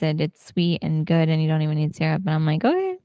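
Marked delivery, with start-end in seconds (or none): 2.6-3.0 high, quick doubtful "okay"; skeptical okay. Retold or imitated. Friend doubtfully hearing French toast needs no syrup, high okay. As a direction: sound unconvinced but going along.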